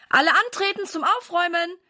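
rally everyone like a cheerful sergeant; calling through the house. A narrator's reading. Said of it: "ruft er durch das ganze Haus".

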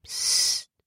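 a single breathy hush, no voice at all; whisper. A narrator's reading. Caleb warning Libby near the bandits, whispered hush. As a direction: hush her urgently without voicing. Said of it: "flüsterte er nur ganz leise".

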